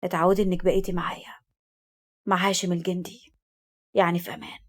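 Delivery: soft, low-key soothing; tender reassurance. A narrator's reading. Hashem soothing her as he strokes her, tenderly. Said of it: "يملس عليها برقة وقال".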